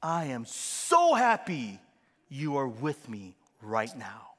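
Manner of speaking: slow, heartfelt, loud start; delighted dad. Retold or imitated. Dad tells his twins he's happy, slow and heartfelt. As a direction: pour delight into each word. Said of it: "I go".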